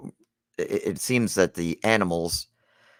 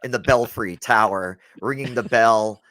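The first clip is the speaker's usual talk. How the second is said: laughing; 2 semitones higher, 5 dB louder than usual. Real, not acted. Joking while laughing.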